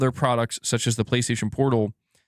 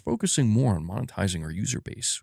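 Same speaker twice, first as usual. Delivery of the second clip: lightly voiced soft-spoken executive; a hint of a corporate executive impression, kept low; Herman Hulst; 3 semitones lower, 4 dB quieter than usual. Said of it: "doing a Herman Hulst impression".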